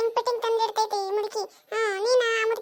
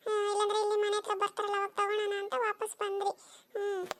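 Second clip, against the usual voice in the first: quiet, close to crying; swallowing tears as she explains; tearful; 6 dB quieter than usual. Acted. Daughter-in-law answering her scolding mother-in-law, softly tearful.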